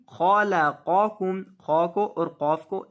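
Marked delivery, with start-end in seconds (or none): 0.1-1.4 खलक़कुम with ख and क़ thick and back in the throat; slow, full, heavy ख and क़ in खलक़कुम; heavy kha and qaf. Shown as a demonstration. Teacher showing thick letters, slow careful recitation. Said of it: "खालाकाकुम नहीं".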